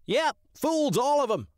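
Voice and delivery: very high, squawky agreement; gleeful crow. Acted. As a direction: crow cawing along eagerly. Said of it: "The crow agreed wholeheartedly".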